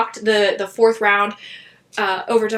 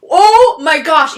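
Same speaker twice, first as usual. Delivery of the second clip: excited gasp; 6 semitones higher, 8 dB louder, slower than usual. Real, not acted. Recalling the team's fight in the game.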